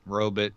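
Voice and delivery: "Robot" as ROH-bit, second syllable swallowed; old-fashioned robot pronunciation. Retold or imitated. Host echoing the fifties way, "Robot" as ROH-bit. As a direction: say "Robot" with a short, weak final vowel. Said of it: "pronounce it robot".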